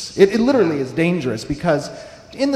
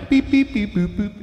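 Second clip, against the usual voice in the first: high beeping robot noises; 7 semitones higher, 4 dB louder than usual. Retold or imitated. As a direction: chirp it out like a little robot. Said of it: "They're like".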